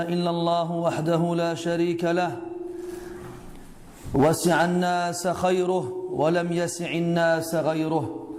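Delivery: measured, lightly intoned praise formula; formal opening invocation. Real, not acted. Speaker opens his lesson praising God, formal lightly chanted recitation. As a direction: recite the opening doxology in an even, sustained tone.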